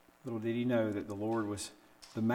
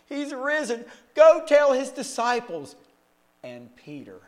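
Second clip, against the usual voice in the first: joyful announcement; 11 semitones higher, 10 dB louder than usual. Acted. Angel telling the women at the tomb, high and joyful. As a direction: proclaim it with joyful wonder.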